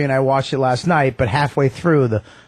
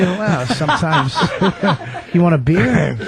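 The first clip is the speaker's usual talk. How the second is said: back to cool and quiet. Retold or imitated. Imitating the actor right after his outburst, casually cool. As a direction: drop the rage and chat as if nothing happened. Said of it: "then he goes right back to".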